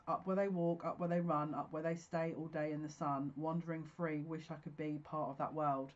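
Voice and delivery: reciting song lyrics with feeling; lightly acting out Ariel's lines; lyric recital. Reciting the Little Mermaid lyrics to viewers, lightly dramatic.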